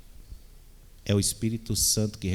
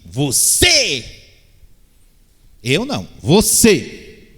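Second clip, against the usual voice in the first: mock accusing shout, louder and higher; accusing finger-point; 5 semitones higher, 10 dB louder, much slower than usual. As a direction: jab the blame at someone else, drawn out. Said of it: "é mais ou menos assim". (acusando com raiva encenada, alto)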